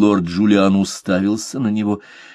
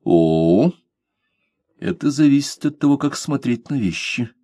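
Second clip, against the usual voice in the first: calm reply; 5 semitones higher than usual. A narrator's reading. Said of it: "спокойно сказал Блад".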